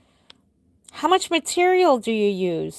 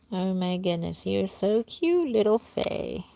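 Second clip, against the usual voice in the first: cooing softly; 4 dB quieter than usual. Real, not acted. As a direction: coo tenderly at a doll. Cooing over a doll.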